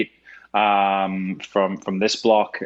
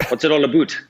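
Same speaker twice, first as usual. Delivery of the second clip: mock Canadian, slightly louder; stereotyped Canadian "aboot" vowel; Canadian accent; 4 semitones higher, 4 dB louder, faster than usual. Shown as a demonstration. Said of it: "What's your best Canadian?".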